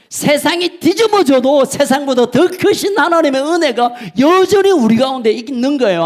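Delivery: normal talking voice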